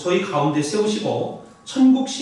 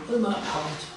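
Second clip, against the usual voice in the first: quiet aside; 7 dB quieter than usual. Acted. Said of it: "repeated emphasis".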